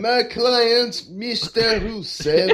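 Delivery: hammed-up Borat-style fake Russian; mock Russian accent. Co-host mocking the attorney introducing his client, bad Russian accent. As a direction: imitate a badly faked Russian accent, drawing out the name. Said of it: "He sounded like Borat".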